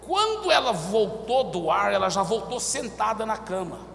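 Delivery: ordinary talk, nothing marked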